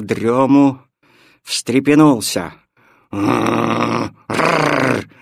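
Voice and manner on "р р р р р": dog growl. Acted. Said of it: "затряс он кудлатой головой".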